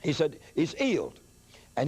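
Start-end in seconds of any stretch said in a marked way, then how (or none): 0.5-1.2 "He's healed" said as "'e's 'ealed", no H sounds; imitating an English preacher's "'e's 'ealed", both H's silent; dropped H's. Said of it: "he didn't pronounce H's".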